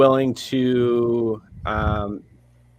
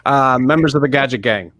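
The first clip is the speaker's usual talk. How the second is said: trying to intimidate; 3 semitones higher, faster than usual. Acted. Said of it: "I was trying to be as intimidating".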